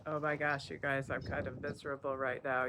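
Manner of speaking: stuffy, blocked-up nose; talking through congested sinuses; nasal voice. Real, not acted. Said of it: "You can probably hear my nasally voice".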